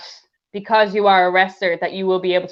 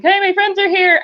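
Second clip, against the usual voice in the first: high bright mock hello; fake cheerful greeting; 10 semitones higher than usual. To the man at the bar, a high fake cheery hey. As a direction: sell the lie with a high hey.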